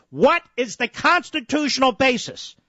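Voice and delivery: worked-up, insistent questioning; heated demand. Real, not acted. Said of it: "You are just screaming".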